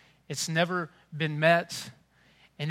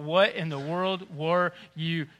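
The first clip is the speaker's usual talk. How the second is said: disbelieving parent; slower than usual. Retold or imitated. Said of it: "eye to eye and thought".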